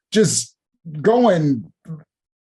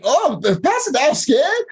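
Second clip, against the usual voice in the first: mock taunt; 9 semitones higher than usual. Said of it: "I'm like".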